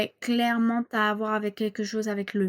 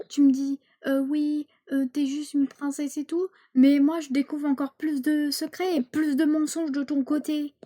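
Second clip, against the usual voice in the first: higher, louder reproach; angry daughter; 4 semitones higher, 3 dB louder than usual. Acted. Daughter accuses her lying mother of hiding secrets, angry. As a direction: hurl the complaint at her mother.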